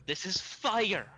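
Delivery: slow, loud, over-simple; talking to a caveman. Real, not acted. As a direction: spell it out to a caveman. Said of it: "talking to him like he's a caveman".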